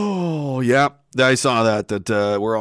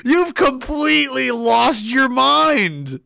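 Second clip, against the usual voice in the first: laughing disbelief; 6 semitones higher, slower than usual. Retold or imitated. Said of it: "I was like".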